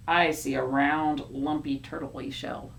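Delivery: low, deliberate reply; character voice. Acted. Other character answers low.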